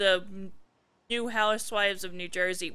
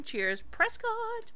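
mock posh signoff; 11 semitones higher, 4 dB quieter, much slower than usual. Signing off the mocked text.

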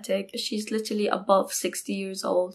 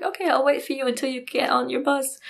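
higher-pitched, lightly imitated change of heart; abrupt turnaround; 4 semitones higher than usual. Angry friend suddenly offering to wait, imitated in higher pitch. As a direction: switch suddenly to agreeable, voice lifted. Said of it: "one hundred and eighty degree".

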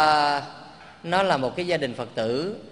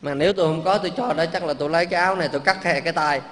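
loud, fast, impassioned; preacher swearing he would give anything, loud and quick; fervent; 2 semitones higher, 5 dB louder, faster than usual. Real, not acted. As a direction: burst out with eager conviction.

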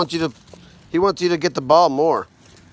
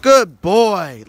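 put-on eager good boy for the dog; excited praise; 2 semitones higher, 4 dB louder than usual. Shown as a demonstration. Dad demonstrating praise for his son, excited. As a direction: sound thrilled with the dog. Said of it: "Like that".

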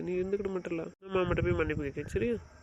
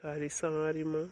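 very slow, softer, defeated sorry; soft apology; 3 semitones lower, 4 dB quieter, much slower than usual. Acted. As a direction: give in gently, beaten. Uncle apologises after quarrel.

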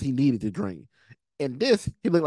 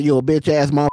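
loud mock insult; 8 dB louder, faster than usual. Voicing what the character really meant.

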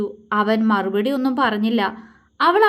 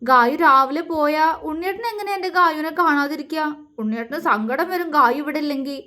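teary; 4 semitones higher than usual. Acted. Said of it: "അവൻ കണ്ണു നിറച്ചുകൊണ്ട് പറഞ്ഞു".

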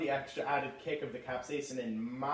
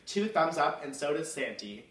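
suburban mom voice. Acted. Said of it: "your friendly neighborhood mom".

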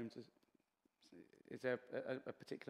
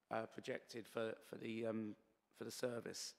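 straining a tired, fading voice; losing voice; 5 dB quieter than usual. Real, not acted. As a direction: voice giving out, hoarse. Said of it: "I'm losing my voice a little bit".

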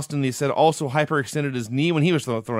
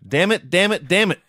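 mildly raised, mock scream; retold scream; 5 semitones higher, 4 dB louder than usual. Recapping the wrestler selling his injury to the camera, mock screaming. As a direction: cry it out in mock pain, slightly louder. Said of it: "scream into the camera".

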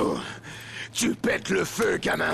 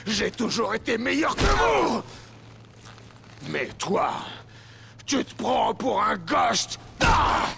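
angry shout. Acted. Villain rages at Elias.

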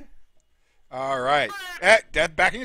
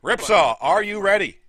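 raised, projected call to the fighter; ring announcer; 4 semitones higher, 5 dB louder than usual. Real, not acted. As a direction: check the fighter is set, announcer style. Announcer calls second fighter.

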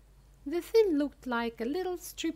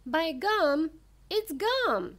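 high, loud yelp of excitement; excited shriek; 6 semitones higher, 4 dB louder, slower than usual. A narrator's reading. Silly gum-chewing girl spots gum, shrieking with excitement. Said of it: "she shrieked".

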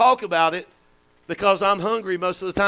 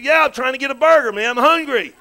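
retold yell; 3 semitones higher, 5 dB louder than usual. The speaker telling how he yelled at Christina for a burger, retold yell. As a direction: yell it back like a hungry traveler. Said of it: "I yelled at Christina".

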